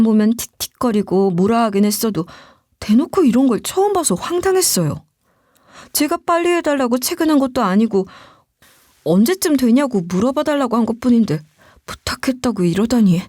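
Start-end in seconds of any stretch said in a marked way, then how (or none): none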